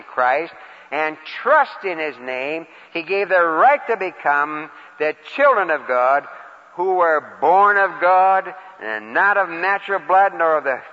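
reading the verse again, slow and weighty; slow scripture reading. Shown as a demonstration. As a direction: linger over each phrase. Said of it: "I'll read it again".

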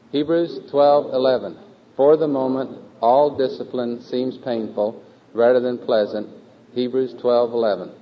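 slow, measured choral recitation; group recitation lead. Acted. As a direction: lead the class word by word, each phrase set apart.

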